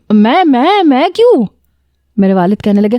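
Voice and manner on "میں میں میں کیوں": high, stammering panicked protest; shocked stammer. Retold or imitated. Majid to his father after the marriage news, stunned stammer. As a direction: jump up in pitch, stuttering in disbelief.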